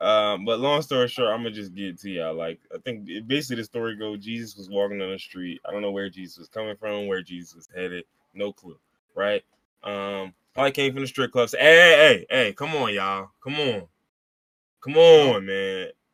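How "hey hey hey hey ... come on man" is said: very loud, slow, big calling out. Acting out a story scene, calling people over: voicing Jesus. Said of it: "you were Jesus talking to the masses".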